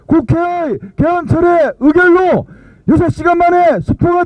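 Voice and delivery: steady, firm public statement; formal declaration reading. Acted. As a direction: read it like a protest proclamation. Reads the joint declaration aloud. (성명서 낭독하듯)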